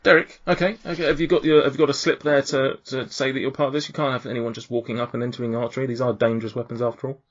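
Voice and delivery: mildly stern event steward checking someone in; lightly voiced, businesslike gatekeeper; impatient tiefling official. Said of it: "impatiently and sort of fairly looking".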